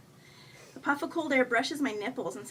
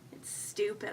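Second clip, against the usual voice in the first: reluctant admission; 2 semitones lower, 6 dB quieter than usual. A narrator's reading. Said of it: "I say, and I drop my eyes".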